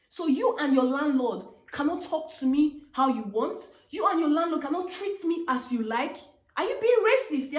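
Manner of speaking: retold scolding, ending high and loud on "racist"; firmly reading him the riot act; retold telling-off. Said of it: "I read my landlord the riot act".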